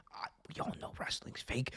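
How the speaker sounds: hushed, breathy confiding aside; whispered aside. Real, not acted. Telling viewers wrestling is fake, whispered. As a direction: lean in and whisper it like a secret.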